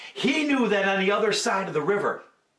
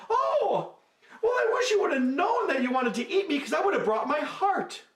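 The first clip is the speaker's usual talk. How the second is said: sly monkey; 11 semitones higher than usual. Acted. Monkey improvises trick.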